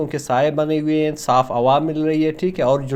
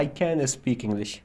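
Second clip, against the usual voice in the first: slow example; 3 semitones lower, 8 dB quieter, much slower than usual. Shown as a demonstration. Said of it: "آپ کہہ سکتے ہو".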